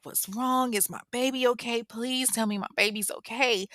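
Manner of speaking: mock tearful worry without sobs; fearful. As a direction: plead anxiously, lightly acted. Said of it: "Tasha's fearful, she's crying".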